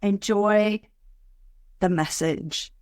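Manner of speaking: slow, drawn-out, soothing invitation; easing into meditation. Acted. Host settling listeners before a meditation, slow and soothing. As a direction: linger on each phrase with long pauses.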